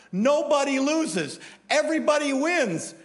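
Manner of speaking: mock cheer. Preacher mocking the prize culture, high sing-song. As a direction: parody the trophy-for-everyone crowd.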